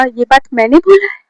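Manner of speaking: mildly disbelieving, rising at the end; incredulous question. Retold or imitated. Blamed student questions her friend's claim, mildly incredulous. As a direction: question the blame with mild surprise.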